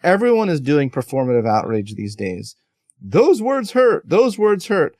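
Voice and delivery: quoting Chris Rock. Retold or imitated. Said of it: "later in the show, he goes".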